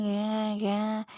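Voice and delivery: mock choked dream cry; drawn-out wordless cry, acted out; imitated strangled cry. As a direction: imitate a voice struggling out of sleep. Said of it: "करके आवाज़ निकाल रही हूँ".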